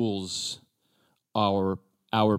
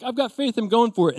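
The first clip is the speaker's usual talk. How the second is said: eager first-step faith; 11 semitones higher, 3 dB louder than usual. Pretend. Eager believer taking the first step.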